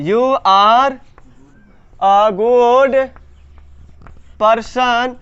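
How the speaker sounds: word by word, long pauses between; slow dictation. Shown as a demonstration. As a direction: draw out each word as if writing it. Dictates the sentence while writing.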